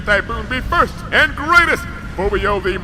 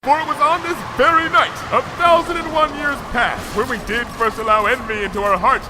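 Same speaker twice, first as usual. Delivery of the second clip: put-on a grand old royal, lightly done; hint of a solemn ancient ruler; regal princess; 2 semitones lower than usual. Luna's ancient royal speech.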